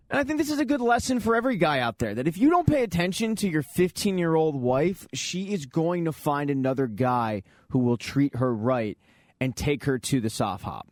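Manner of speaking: lightly put-on public service announcement; mock PSA. Host to every guy out there, mock PSA. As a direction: deliver a mock lesson, starting high and settling. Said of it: "But enough with the P S A".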